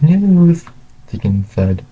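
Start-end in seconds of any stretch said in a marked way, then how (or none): 0.0-0.6 high, slow, excited announcement; loud, excited. A narrator's reading. Tegan announces news to the dads, loud and excited. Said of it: "with a loud but excited voice".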